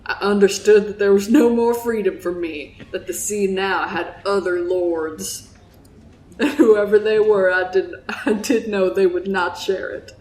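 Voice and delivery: lightly voiced Southern old salt of a fisherman; Southern accent, telling a grave sea tale. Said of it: "that's my Southern accent".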